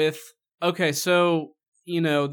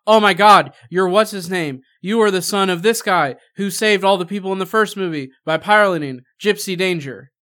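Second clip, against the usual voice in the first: loud, higher, gushing exposition; mock gushing recognition; 3 semitones higher, 9 dB louder than usual. Film critic mocking characters who recognise Finn, gushing loudly. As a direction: blurt it out like a mock-starstruck character.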